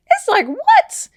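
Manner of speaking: high, loud disbelieving rise; shocked what. Real, not acted. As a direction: squeal it in disbelief. Reacting to line 116.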